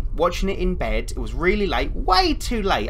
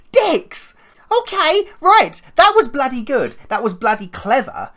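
very high, loud, laughing through it; half-laughing, still rattled; real shaken laughter; 11 semitones higher, 8 dB louder, slower than usual. Real, not acted. Reacts to jump scare.

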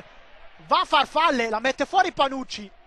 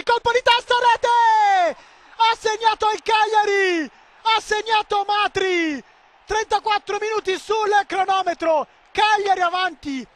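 goal call; 4 semitones higher than usual. Real, not acted. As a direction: announce the goal, stretching the name.

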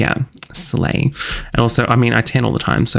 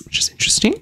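whisper; much faster than usual. Real, not acted. Aside while placing lights.

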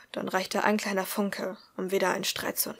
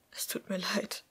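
softer, breathy whisper into her hair; 7 dB quieter than usual. Acted. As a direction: whisper it, hugging her close. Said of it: "flüsterte er". (Thaddeus flüstert Liz eine Entschuldigung)

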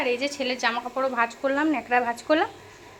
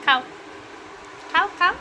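coaxing to eat; 3 semitones higher than usual. Real, not acted. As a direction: cheer her on to take a bite. Coaxing her mother to eat.

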